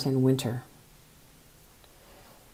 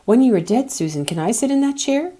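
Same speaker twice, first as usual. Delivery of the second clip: put-on solemn child; 6 semitones higher than usual. A narrator's reading. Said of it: "asked solemnly".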